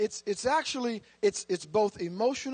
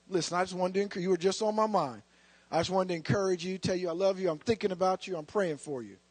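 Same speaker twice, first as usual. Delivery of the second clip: softer, lower, tender phone voice to a friend; gentle encouraging call; 4 semitones lower, 4 dB quieter, faster than usual. Retold or imitated. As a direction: reassure someone you've been thinking of.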